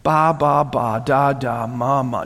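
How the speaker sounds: mock baby babble; baby talk. Shown as a demonstration. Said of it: "just baby talk".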